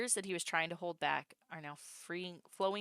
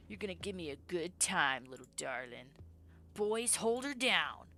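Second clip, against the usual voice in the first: leering thug. Acted. Thug ordering his boys to pin her, gloating. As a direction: savour the order to hold her down.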